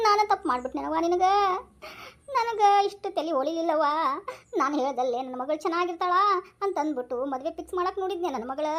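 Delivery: a touch of tearful regret; mild weeping lament. Acted. Father mildly lamenting to his dead daughter. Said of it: "ಅಳದ್ ಸಾಕ್ರಿ".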